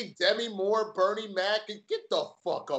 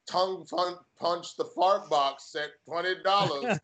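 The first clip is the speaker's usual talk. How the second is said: slow, lightly voiced robot reading a donation; imitating a stiff text-to-speech bot; slower than usual. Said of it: "doing a robot voice for the Schmobot".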